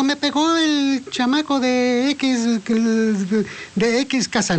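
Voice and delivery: voz de niño aguda y lenta, quejumbrosa; niño quejoso imitado. Retold or imitated. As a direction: imita al niño que acusa al otro, despacio. Niño se queja a la mamá. (niño que llega llorando con su mamá, voz aguda y lenta)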